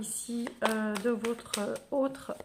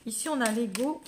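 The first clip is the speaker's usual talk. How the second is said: talking while burping. Real, not acted. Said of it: "Pardon, j'ai roté".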